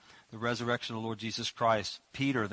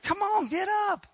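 1 casual Peter. Retold or imitated. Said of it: "grabbed her hand and said".

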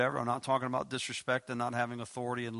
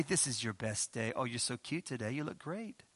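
sarcastic sweetness; 4 dB quieter than usual. Pretend. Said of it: "it's sarcasm".

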